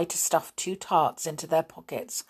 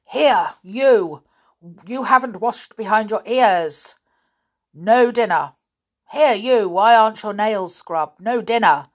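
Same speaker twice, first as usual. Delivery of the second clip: furious roar at the pupils; angry schoolmaster roaring; 5 semitones higher, 9 dB louder than usual. Acted. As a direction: bellow each order at the boys. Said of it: "and roared at him".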